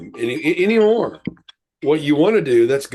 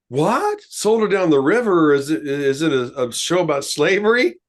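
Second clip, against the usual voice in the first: surprised. Retold or imitated. Confused reply, retold.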